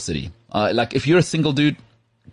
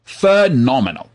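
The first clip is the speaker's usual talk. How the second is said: drawn-out praise; 3 semitones higher, 4 dB louder, slower than usual. Real, not acted. Praising the Australian accent.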